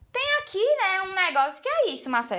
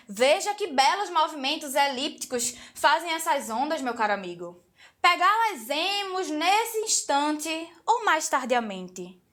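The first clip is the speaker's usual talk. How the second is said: formal office-speak surfer. Retold or imitated. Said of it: "um surfista fala assim".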